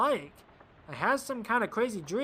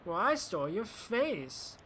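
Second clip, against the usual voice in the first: sarcastic; 3 semitones higher than usual. Shown as a demonstration. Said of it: "I was being sarcastic".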